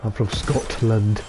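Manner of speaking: slow "Scotland" with the T sounded; careful Scotland. Acted. Announcing herself in a restaurant, slow careful Scotland. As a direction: spell out each half of "Scotland". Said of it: "go around in a restaurant and go".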